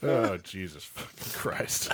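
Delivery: slow exasperation. Real, not acted. Exasperated after own card.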